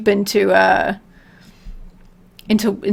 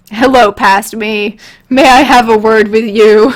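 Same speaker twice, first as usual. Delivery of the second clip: mock stern; 6 dB louder than usual. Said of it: "I'm like".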